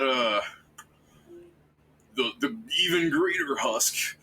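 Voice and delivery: slurred, tipsy dwarf rambling; drunk slurring. Acted. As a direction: slur the words like a drunk dwarf. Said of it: "is slurring his speech".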